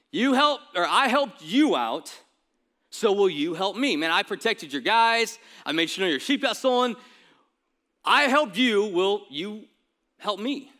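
pleading demand. Acted. David pressing Nabal for help in return, forceful plea. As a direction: lean on it, demanding a favour back.

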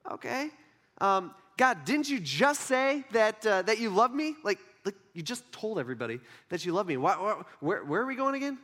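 halting, acted confusion; mildly incredulous questioning. Jesus questioning God's love, mildly incredulous. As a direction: query it with rising, mock-worried disbelief. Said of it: "I would have some questions".

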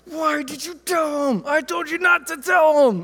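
high, whiny mock outrage; imitating mad child. Daughter scolds her brother for telling dad, high mock anger. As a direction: scold like an indignant little girl. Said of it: "she was so mad".

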